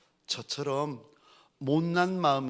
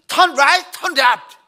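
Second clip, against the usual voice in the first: much higher and louder, barked out; shouted directions; 11 semitones higher, 13 dB louder, much slower than usual. Retold or imitated. Pastor shouting directions at his passenger again. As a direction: yell it again at him. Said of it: "또 외쳤습니다".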